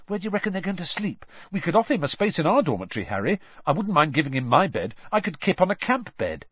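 fast, high, excited rush; tripping over his words for his hero; eager babble. A narrator's reading. Ron eagerly babbling to Harry about Krum, fast.

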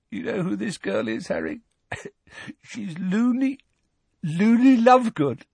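high, giggly whisper to Harry; giggling weakly. A narrator's reading. Ron whispers giggling into Harry's ear, high. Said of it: "still giggling weakly".

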